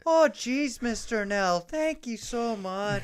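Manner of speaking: high, loud Irish cop voice, slow at the end; mock the cop in a thick brogue; 1930s beat cop. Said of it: "Richie has this Irish cop voice".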